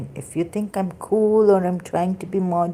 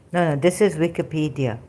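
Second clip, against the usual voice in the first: usual speaking voice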